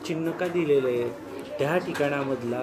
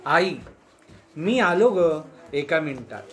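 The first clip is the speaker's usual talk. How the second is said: calling to mother; 3 dB louder than usual. Shown as a demonstration. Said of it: "कसं वाक्य होईल बघ".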